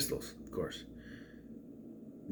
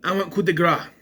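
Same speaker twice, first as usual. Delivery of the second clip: villain's demand; 6 semitones higher, 4 dB louder than usual. Retold or imitated. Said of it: "Marquise decides".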